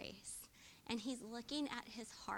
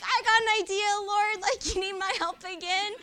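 much higher and much louder, blurting out as Peter; eager Peter; 10 semitones higher, 14 dB louder than usual. Retold or imitated. Preacher voicing Peter blurting to Jesus, loud and eager. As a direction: play a pushy Peter butting in to help. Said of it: "is like".

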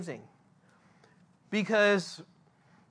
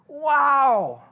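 amazed, higher and louder; loud wow; 5 semitones higher, 8 dB louder than usual. Real, not acted. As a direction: let the awe burst out. Preacher's awe at the verse.

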